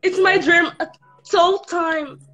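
shaky nervous fan. Real, not acted. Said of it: "I'm shaking".

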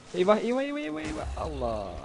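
panicked cries. Real, not acted. Player sees creeper explode, high panicked shriek.

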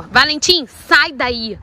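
sharp call across the paddock; shouting at the colt. Real, not acted. Owner yelling at her colt to get away. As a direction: yell the horse's name to stop him. Scolding horse in the rain.

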